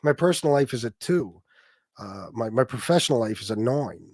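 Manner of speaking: mock New York accent, "nine" as "noin"; lightly exaggerated New York accent impression; mocked talker's accent. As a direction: imitate his odd New York vowels. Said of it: "That's how he talks".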